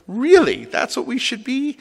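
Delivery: high-pitched questioning echo, rising at the end; retold incredulity. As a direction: throw it back at the member in disbelief. Rabbi's retold doubting reply.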